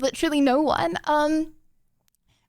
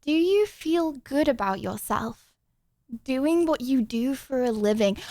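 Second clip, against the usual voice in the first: reading slowly. Real, not acted. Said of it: "turn the music off for this one".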